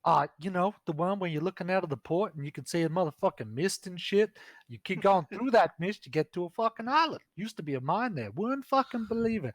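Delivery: high, loud sassy ranting woman; sassy woman npc. Acted. GM voicing the dancer, ranting to the players in a high brassy voice. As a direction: rant about goblins in a shrill high voice. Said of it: "She's like".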